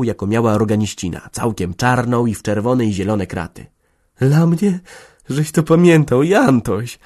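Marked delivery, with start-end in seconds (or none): 4.2-7.0 grateful moan. A narrator's reading. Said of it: "jęknęła z niezgłębioną wdzięcznością".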